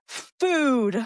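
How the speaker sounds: put-on high-pitched toddler outburst in one word; demanding toddler. Toddler tells mom what she needs, high mock demand. Voices toddler finally using words.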